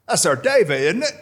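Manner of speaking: put-on amateur Liverpool accent, rising into the question; a drummer's Liverpool accent. A band member spotting Davey on the telly, in a mock Scouse accent. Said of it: "my attempt at a Liverpool accent".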